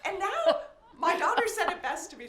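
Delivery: bubbling over with laughter; laughing while talking. Real, not acted. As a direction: talk through giggles. Laughing about checking hair.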